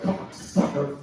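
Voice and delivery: imitated tic outburst.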